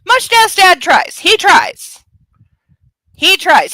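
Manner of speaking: high, loud and slow, pleading on his behalf; drawn-out plea that he really tries; mock pity. Real, not acted. Defending the dad in the movie, loud and high mock pity.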